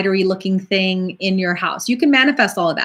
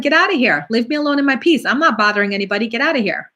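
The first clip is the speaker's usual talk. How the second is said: upset; 3 semitones higher, faster than usual. Pretend. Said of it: "I'm gonna get upset".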